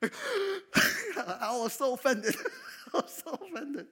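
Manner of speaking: high, loud, slow laughing outrage; laughing indignation. Real, not acted. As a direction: laugh at your own offence. Laughing about pay.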